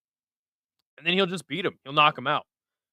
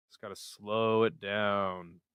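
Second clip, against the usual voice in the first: slow, hushed golf announcer; soft and slow like golf coverage; 6 semitones lower, 9 dB quieter than usual. Pretend. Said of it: "I gotta start talking like a golf annou".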